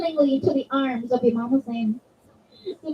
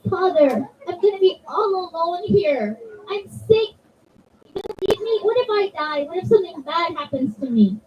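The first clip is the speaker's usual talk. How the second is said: put-on higher-pitched child's voice, anxious and begging; frightened little girl pleading; 3 semitones higher than usual. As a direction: beg your father like a scared sick child. Sick daughter begging father to stay.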